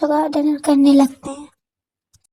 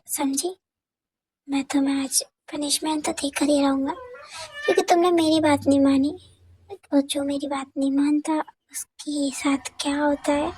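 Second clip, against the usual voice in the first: quiet menacing lover; 4 dB quieter than usual. Acted. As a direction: promise the punishment, softer as it goes. Suga threatening her. (धीमी, धमकाती हुई आवाज़)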